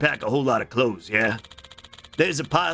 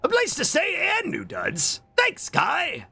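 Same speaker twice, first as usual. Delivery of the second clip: put-on high girlish read; light high character voice; heroine voice; 12 semitones higher than usual. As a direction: play the grateful heroine. Voicing heroine's lines.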